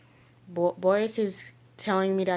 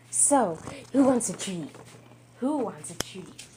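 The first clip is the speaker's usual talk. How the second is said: talking to a dog. Real, not acted. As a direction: coo treats to the dogs. Giving the dogs treats.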